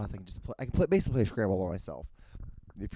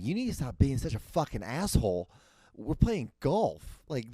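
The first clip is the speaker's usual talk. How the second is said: worked-up, higher-pitched retold rant; exasperated telling-off; 4 semitones higher than usual. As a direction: scold an uptight golfer in mounting exasperation.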